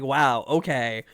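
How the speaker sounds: slow, drawn-out deadpan acceptance; resigned okay. Retold or imitated. Retelling being scolded by Kogorin, slow resigned okay. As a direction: drag out a defeated okay. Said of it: "And I was like".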